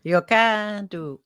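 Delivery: put-on slow, drawn-out stab at a Jamaican accent; badly faked Jamaican accent; tentative go at a Jamaican accent; attempted Jamaican accent. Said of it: "well, I can't do that".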